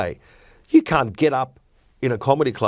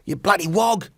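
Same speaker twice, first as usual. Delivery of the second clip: higher-pitched mock nasty jibe; nasty slur; 7 semitones higher than usual. Comedian demonstrating someone being nasty with a slur, mock nasty. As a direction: act out a nasty insult. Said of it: "they're being nasty".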